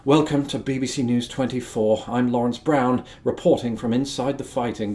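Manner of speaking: lightly voiced, understated news anchor; hushed, measured news-report parody; reserved BBC newsreader. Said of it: "watch the B B C and it's all very".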